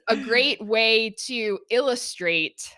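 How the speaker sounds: fast laughing aside; real laughter while correcting the story. Real, not acted. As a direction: chuckle through the disclaimer. Laughing disclaimer to husband.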